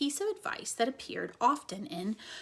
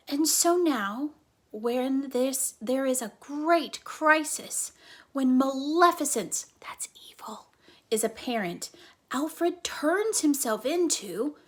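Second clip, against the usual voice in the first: slow, louder, building suspense; building drama; 3 semitones higher, 5 dB louder, slower than usual. Acted. Flora dramatically builds toward Incandesto for the squirrel. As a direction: build it up slowly to the reveal.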